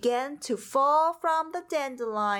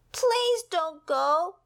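higher, drawn-out plea, slower; slow begging; 7 semitones higher, 3 dB louder, slower than usual. A narrator's reading. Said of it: "begged Pip".

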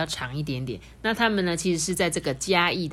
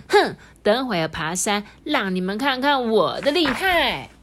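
defiant huff; 4 semitones higher, 4 dB louder than usual. Acted. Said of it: "就不服气啊".

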